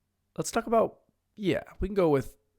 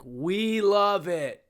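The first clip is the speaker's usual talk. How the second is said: slow drawn-out mock crowd chant; crowd cheering; 3 semitones higher, much slower than usual. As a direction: stretch it out like a crowd. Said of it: "everyone in the crowd was like".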